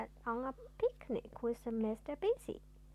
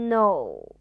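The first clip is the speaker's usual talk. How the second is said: loud firm No; 8 semitones lower, 11 dB louder than usual. Acted. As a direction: refuse it loudly. Emphatic refusal.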